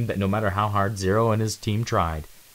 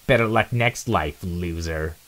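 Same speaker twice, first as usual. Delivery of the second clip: mocking sign-off; slower than usual. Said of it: "Nitro's voice mocking".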